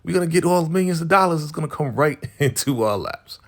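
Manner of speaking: high-pitched, giddy mock excitement; happy. Celebrating millions coming their way, mock happy. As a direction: act out gleeful disbelief, voice way up. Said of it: "They're getting happy".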